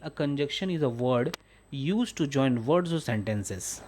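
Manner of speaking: teacher dictating at half speed; slow dictation reading. Shown as a demonstration. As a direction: read the definition very slowly, word by word. Reads English definition to class.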